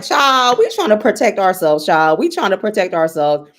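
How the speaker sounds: loud, quick protest; emphatic acted quote. Speaking as Black folks protecting themselves, loudly emphatic. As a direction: rattle it off loudly, dropping on each "child".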